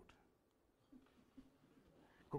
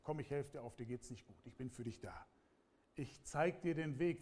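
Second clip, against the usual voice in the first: gentle reassurance. Pretend. Preacher voices a gentle helper.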